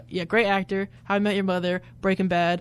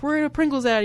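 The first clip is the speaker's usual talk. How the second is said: cartoon characters quoted; 6 semitones higher than usual. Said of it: "they were like".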